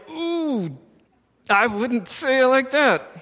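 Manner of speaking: a hushed, high wince of mock alarm; wincing ooh. Listener reacting to a sibling mouthing off, hushed wince. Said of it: "You're like".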